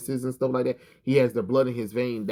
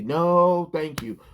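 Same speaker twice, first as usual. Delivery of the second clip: mock Wonder Woman line; 6 semitones higher, 3 dB louder, slower than usual. Mocking how Wonder Woman is written, lightly prim. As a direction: say it like a prim superhero brushing someone off. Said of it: "that's not how Wonder Woman would talk".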